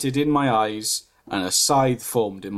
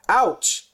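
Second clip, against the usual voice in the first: moaning ouch; 7 semitones higher than usual. A narrator's reading. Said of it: "I moaned".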